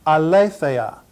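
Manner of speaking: "aletheia" said ah-LAY-thay-ah, carefully; pronunciation demo. Shown as a demonstration. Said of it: "pronounce them all again".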